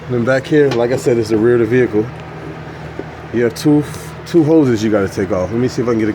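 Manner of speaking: talking while lying under a truck; lying under a car. Real, not acted. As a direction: speak from flat on your back. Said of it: "so I'm under the truck now".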